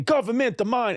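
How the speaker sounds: mock street-preacher rant about government; ranting train preacher. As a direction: ham up the crazed subway preacher. Same ranting man repeated.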